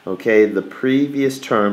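slow, weight on previous; slow teacher emphasis; stress on previous. Shown as a demonstration. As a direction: drag out the previous term. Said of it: "that's what it's all about today".

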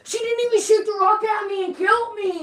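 shouting hacker through laughs; angry shout. Real, not acted. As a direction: yell it out, outraged at the game. Accusing a player of hacking.

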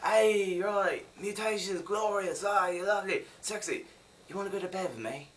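high, overblown English flirt; hammed-up English lothario accent; mock English accent. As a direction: put on an obnoxious English accent, chatting someone up. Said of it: "His character pretty much goes around for the first act of the film going".

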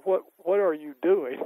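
put-on high, loud bewildered old woman, laughing through it; mock alarm, waking confused; quoting his disoriented friend in a high loud voice; imitating confused Nell. Nell confused, woken from sleep.

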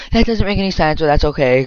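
high, bouncy cheerful brush-off; good mood. Real, not acted. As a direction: laugh it off in a sunny mood. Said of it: "See how much of a good mood I'm in?".

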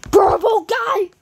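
loud, slow, drawn-out call. Acted. Character calling out for purple guy. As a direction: shout the name out slowly.

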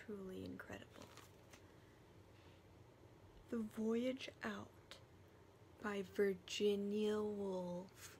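soft, slow, near-whispered awe; hushed reverence. Acted. Reader unveiling a favourite book, hushed reverence. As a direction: breathe it slowly with long reverent pauses.

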